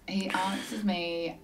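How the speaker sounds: hushed, unvoiced whisper. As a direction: drop to a secret whisper. Retelling the late call.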